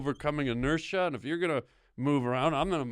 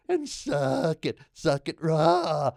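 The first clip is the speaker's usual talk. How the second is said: slow shout; 4 semitones higher, 6 dB louder, slower than usual. Acted. Insult builds into a shout.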